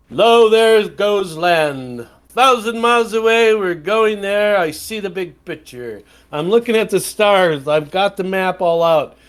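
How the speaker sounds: pompous ship captain announcing his course; grand captain. Pretend. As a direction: play a grandiose captain gazing at the horizon.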